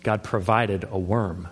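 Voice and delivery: "provided" drawn out slow and heavy; stress on provided. Shown as a demonstration. Pastor underlining the repeated word to his church, slow and weighty. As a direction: say "God provided a worm" slowly, leaning on provided. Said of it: "you hear that word again".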